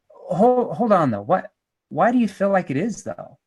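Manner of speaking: skeptical probing question, halting at the start; doubtful, hesitant challenge. Shown as a demonstration. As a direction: stop them short, then question it doubtfully. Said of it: "my voice was skeptical".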